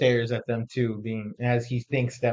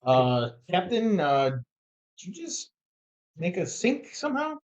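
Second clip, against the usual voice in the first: mock alarm; 5 semitones higher than usual. Player mocks captain, rising alarm.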